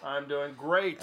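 slow, congested and under the weather; sick voice. Real, not acted. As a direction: sound like you're fighting a cold. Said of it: "I don't think you are".

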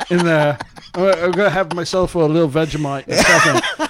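put-on hammy New Zealand accent; put-on Antipodean accent. Host bantering as the reporter, hammed-up New Zealand accent. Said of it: "That's your accent, mate?".

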